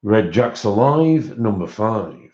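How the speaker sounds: slow sing-song bingo call; bingo caller. Acted. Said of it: "I feel like a bingo caller".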